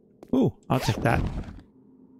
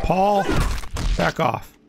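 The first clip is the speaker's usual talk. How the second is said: calling out; 3 semitones higher than usual. Real, not acted. Calling to teammate.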